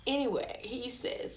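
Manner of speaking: ordinary talk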